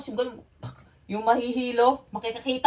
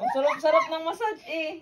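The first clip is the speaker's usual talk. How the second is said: being tickled; 4 semitones higher than usual. Real, not acted. Tickled during massage, laughing out.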